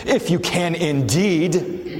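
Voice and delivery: lightly voiced offended Englishman, drawing it out; offended British gentleman. Shown as a demonstration. Pastor voicing Jesus as the commentator suggests, mildly offended British gentleman. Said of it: "read like an offended British gentleman".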